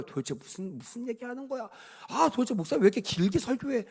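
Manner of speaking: imitating a churchgoer's annoyed complaint, starting under the breath; irritated grumbling. Churchgoer complaining about the long sermon, mock irritation. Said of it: "이러면서 막 짜증나며 가는 사람도 있죠".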